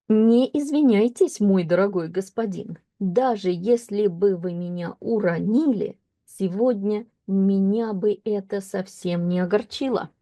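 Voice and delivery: a lightly performed story reading; story reading with a slight lift at the start; reading aloud. Acted. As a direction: read the line out to the class. Reads the story text.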